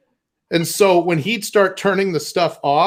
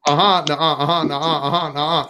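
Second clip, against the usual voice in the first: put-on kid's sing-song back-and-forth; childish bickering; 3 semitones lower than usual. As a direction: chant it like a squabbling kid. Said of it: "I was like".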